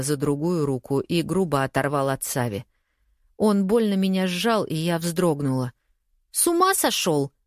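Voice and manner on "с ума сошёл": shocked. Acted. Friend shocked at rough grab.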